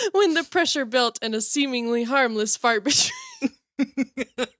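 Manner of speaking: reading broken up by giggles; can barely get the words out; giggling while reading. Real, not acted. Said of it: "I get in these giggle fits".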